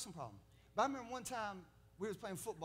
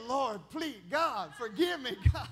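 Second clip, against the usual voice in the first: put-on frightened boy's prayer; 6 semitones higher, 10 dB louder than usual. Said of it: "So I'm laying on the bed".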